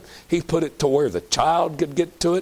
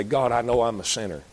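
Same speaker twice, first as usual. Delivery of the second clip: humble prayer; 4 semitones lower than usual. Pretend. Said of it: "Cry out to God and say".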